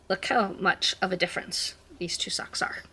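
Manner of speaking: hushed whisper to camera. Real, not acted. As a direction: breathe it out unvoiced. Whispered aside comparing socks.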